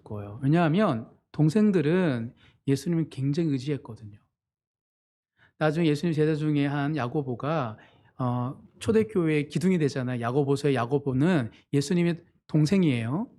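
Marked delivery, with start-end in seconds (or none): none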